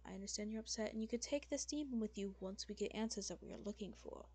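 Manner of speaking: calm an upset lady with patient authority; composed demon lord, placating. Acted. Game master voices calming lord.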